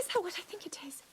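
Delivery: breathy gasp, then a hushed question; gasping whisper. Acted. Princess to her knight, spotting a rare creature: a hushed, excited gasp. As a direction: whisper so you won't scare it off.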